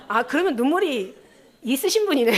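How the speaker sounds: teasing line breaking into a laugh; laughing reply. Retold or imitated. Preacher jokes with tearless member, laughing. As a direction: tease them, laugh at the end.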